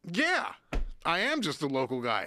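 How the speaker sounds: high, small hurt voice; mock meek agreement. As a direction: swallow the insult politely. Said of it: "I was just like".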